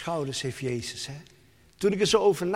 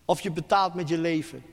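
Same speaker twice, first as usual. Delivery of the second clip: persecutors' threat; 4 semitones higher, 5 dB louder, faster than usual. Retold or imitated. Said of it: "Zeggen ze".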